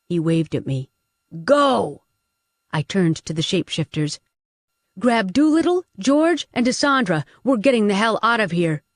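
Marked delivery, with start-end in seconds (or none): 1.4-2.0 loud urgent command; shout. Acted. Curran shouting across fire. 5.0-8.8 rally the group to move; commanding orders. Acted. Commanding shifters in escape.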